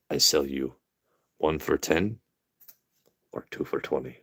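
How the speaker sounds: lightly voiced shopkeeper naming his price; store owner voice. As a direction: offer the price like a sly vendor. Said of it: "store owner quoting price".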